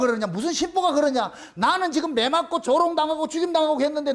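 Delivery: insistent, accusatory questioning; accusing rebuke. Retold or imitated. God accusing the preacher over seeking glory, retold rebuke. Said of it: "그렇게 고발을 당할 때".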